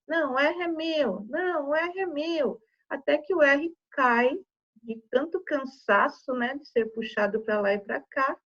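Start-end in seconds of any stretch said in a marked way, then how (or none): 0.1-2.6 crianças brigando de brincadeira, tom mais agudo; vogais disputando o R. Acted. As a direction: encene de leve uma disputa de criança. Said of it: "as vogais querendo R pra elas". (briguinha fingida, voz um pouco mais aguda)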